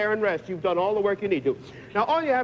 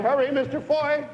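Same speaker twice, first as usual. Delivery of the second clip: urgent hurry; 5 semitones higher than usual. Real, not acted. Host urging contestant against clock.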